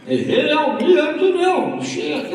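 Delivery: high-pitched hammed-up redneck drawl, laughing through it; redneck coworker impression. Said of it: "that's the way he talked".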